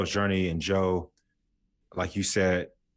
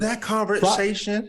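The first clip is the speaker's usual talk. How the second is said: knowing emphasis; 13 semitones higher, 5 dB louder, slower than usual. Real, not acted. Recalling awkward scene.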